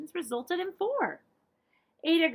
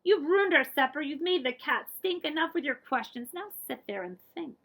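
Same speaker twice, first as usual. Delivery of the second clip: louder, higher telling-off; scolding parents; 4 semitones higher, 4 dB louder than usual. Acted.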